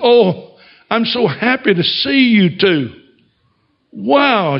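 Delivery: waitress hugging them, thrilled and high-pitched; overjoyed greeting. Retold or imitated. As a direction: gush with joy at seeing old friends.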